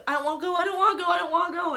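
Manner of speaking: fast, high, loud mock panic; acted desperate pleading. Replaying Spider-Man's death scene, panicked pleading. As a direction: beg frantically, words tumbling out. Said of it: "I'm gonna act out the scene here".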